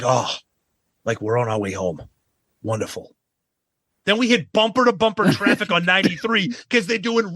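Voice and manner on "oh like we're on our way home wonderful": dry, fading sarcasm; deadpan, trailing off softer; sarcastic. Retold or imitated. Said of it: "I'm like".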